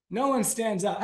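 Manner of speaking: ordinary talk, nothing marked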